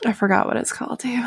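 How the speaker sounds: whispered aside. Real, not acted. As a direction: hush it back. Whispered reply.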